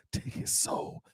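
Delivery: whispered soul-stealing sorcerer; Shang Tsung. Acted. Commentator mimics a game villain taking souls, in a hushed whisper. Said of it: "She like Shang Tsung from Mortal Kombat".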